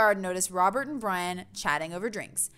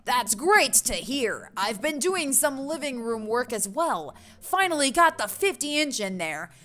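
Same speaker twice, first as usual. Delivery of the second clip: big, chummy dad voice; hearty neighbor dad; 3 semitones higher, slower than usual. Acted. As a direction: boom out a hearty greeting. Plays boastful neighbor Brian.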